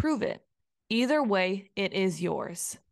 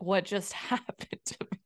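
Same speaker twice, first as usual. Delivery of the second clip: laughing disbelief; 5 dB quieter than usual. Retold or imitated. Embarrassed reaction laughing.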